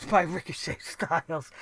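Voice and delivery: amused, quiet self-correction; laughing at own slip. Real, not acted. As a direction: laugh off the name mix-up. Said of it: "You see how fucked up they got me tonight?".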